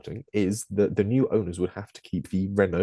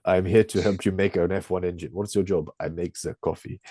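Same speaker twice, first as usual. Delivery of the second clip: hammed-up bad French accent, lightly done; a clumsy mock French accent; terrible French accent. Frenchman at GM headquarters, in a bad mock French accent. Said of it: "such a terrible French accent".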